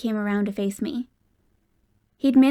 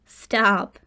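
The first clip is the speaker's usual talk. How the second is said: fake pleading; 5 dB louder than usual. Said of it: "he fake pleaded".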